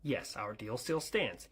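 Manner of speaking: ordinary talk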